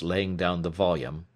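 ordinary delivery, nothing marked

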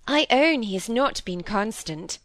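high, gentle pleading; tender piping voice. A narrator's reading. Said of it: "in her tender, piping voice".

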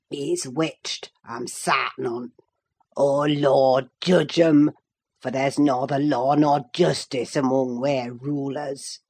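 low, harsh Yorkshire grumble, scornful; harsh old servant. A narrator's reading. Old servant scolding Nelly for her singing, harsh low Yorkshire grumble. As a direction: growl it like a sour old servant who hates singing.

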